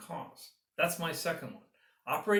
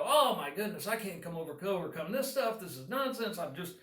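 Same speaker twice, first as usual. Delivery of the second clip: higher, hammed-up flustered wail, rising to a squeak at "trapped"; mock panic; 5 semitones higher than usual. Mock-panicking dairy farmer overwhelmed by challenges, hammed-up higher wail. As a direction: throw up your hands in mock despair. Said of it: "throw your hands up in the air and go".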